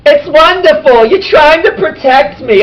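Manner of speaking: high, loud, over-the-top rapture; gushing delight. Acted. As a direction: gush gratefully in a high put-on character voice. Voices the head thrilled with helmet.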